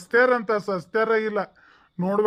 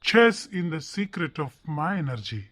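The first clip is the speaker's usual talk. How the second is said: slow grand pronouncement; 5 semitones lower, much slower than usual. Acted. Grandiose secret in broken English.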